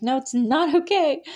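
high, loud anguished cry of no; a hammed-up retake of the line; imitating a tearful outburst. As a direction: belt it like the actress breaking down. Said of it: "her acting is incredible".

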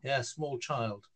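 broad Newcastle Geordie; Geordie accent. Shown as a demonstration. Showing how he talked as a little lad, Geordie accent. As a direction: talk in a lively Geordie accent. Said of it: "the way I'm talking now".

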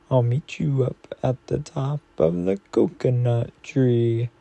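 gentle bedtime story read aloud; reading to children. Acted. Reading a picture book aloud.

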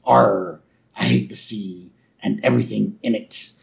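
gruff sailor voice. Retold or imitated. Sailor curses after boat crash.

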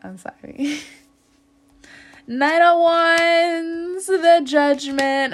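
high, loud, slow laughing card read. Real, not acted. Reader laughing as she lists cards to Libra. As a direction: giggle out the card names.

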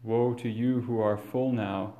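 usual speaking voice

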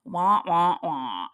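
lightly droned wah wah wah like a bored voice; mock droning. Shown as a demonstration. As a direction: mimic a dull drone. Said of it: "we are just simply robotic".

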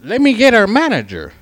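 high, loud retold demand; demanding customer. Customer demanding manager, overheard.

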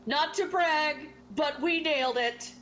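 lightly hammed-up brag; boastful announcement. Adventurer bursting into the tavern, boasting. Player's boastful in-character entrance.

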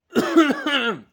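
sudden choking cough fit. Real, not acted. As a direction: cough hard as it goes down wrong. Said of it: "Hasta me ahogué, cabrón".

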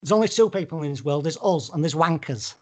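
lightly put-on Mancunian, quickly delivered; Manchester accent. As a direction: declare it in mock Manc. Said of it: "That's Manchester".

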